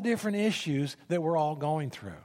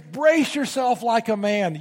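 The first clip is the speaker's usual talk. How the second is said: slow, louder, higher command; God's thundering command; 6 semitones higher, 6 dB louder than usual. Acted. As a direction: boom it out like God in the storm. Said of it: "You know something's coming when God says".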